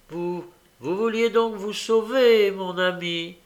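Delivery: high, loud mock-friendly question; taunting villain. A narrator's reading. Fagin taunts captured boy.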